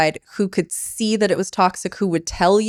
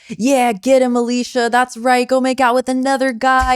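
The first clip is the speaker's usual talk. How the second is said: egging-on toxic friend; 4 semitones higher than usual. Retold or imitated. Host mimicking toxic friends who egg her on, hyped. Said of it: "toxic friends who would be like".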